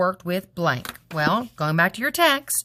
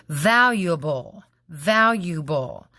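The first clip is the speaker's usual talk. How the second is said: slow syllables; slower than usual. Shown as a demonstration. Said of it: "divided it into syllables".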